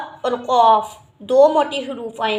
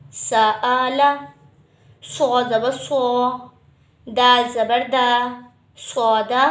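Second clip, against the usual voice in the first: slow spelling drill; much slower than usual. Shown as a demonstration. Teacher spells letters aloud in drill.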